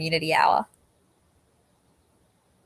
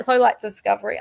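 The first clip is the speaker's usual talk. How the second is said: laughing at own slip; 2 semitones higher, 4 dB louder than usual. Real, not acted. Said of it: "I'm really losing it today".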